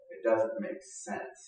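slow, breathy hush on "doesn't"; almost whisper it in awe; hushed wonder. Shown as a demonstration. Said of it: "repeated line, first hushed".

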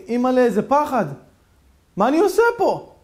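high, loud panicked cry; frightened cry. Acted. Man waking in a graveyard, crying out in fright. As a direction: gasp it out in terror.

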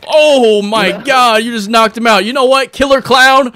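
high, loud knockout call; excited announcer. Pretend. Announcer to Killer Clown after a knockout, excited high call. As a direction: hype the knockout for the crowd.

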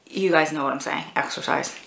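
exercise whispered low and soft; confidential aside. Real, not acted. Letting viewers in on the euphemism, whispered aside. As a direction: drop exercise to a knowing whisper.

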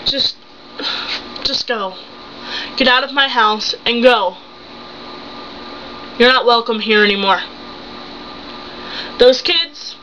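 wounded wife closing the door on him, with heavy pauses; betrayed wife, finished. Acted. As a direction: send him away with restrained anger. Wife throws husband out.

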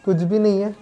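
speaking through fabric hood; through a face mask. Real, not acted. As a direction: mouth covered by balaclava. Seen 1: Black fleece balaclava covers mouth and nose throughout the words.

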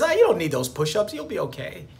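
lightly voiced lazy tempter; mild mock coaxing; lizard brain voice. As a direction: talk yourself out of the push-ups. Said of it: "it says".

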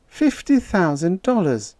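high, dreamy female character voice. A narrator's reading. Irene marvelling at the money, dreamy. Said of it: "Irene said dreamily".

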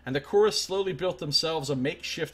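measured storyteller read; dramatic narrator reading; game text narration. Acted. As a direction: read the outcome like a chronicle. Reads game narration aloud.

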